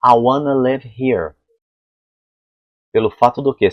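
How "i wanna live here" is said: slow "I wanna live here", "live" as "lev"; linked "wanna", short vowel in "live"; native reduced pronunciation. Shown as a demonstration. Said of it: "Falam pra mim assim".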